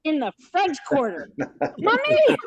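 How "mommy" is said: high mock yell, repeated for laughs; high re-enacted search cry; retold calling out. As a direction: pitch it way up like calling down the street. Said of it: "I'm doing it now".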